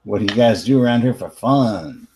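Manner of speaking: put-on light Bronx teen New York accent; casual New York accent, Bronx kid. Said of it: "your super sweet New York accent".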